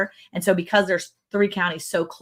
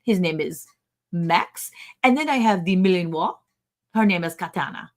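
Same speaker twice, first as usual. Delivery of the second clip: put-on French accent. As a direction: imitate a French neighbor introducing the dogs. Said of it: "Are you gonna do your French accent".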